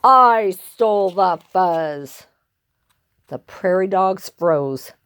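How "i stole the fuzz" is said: slow, drawn-out boast; barking villain. Acted. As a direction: claim it boldly, word by word. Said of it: "barked a voice from above".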